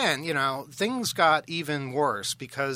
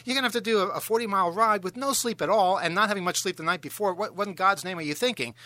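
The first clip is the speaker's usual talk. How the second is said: higher, louder, acted-out inner nagging; agitated self-scolding; 6 semitones higher, 3 dB louder than usual. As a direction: scold yourself as if retelling a sleepless panic. Acts out scolding himself while sleepless.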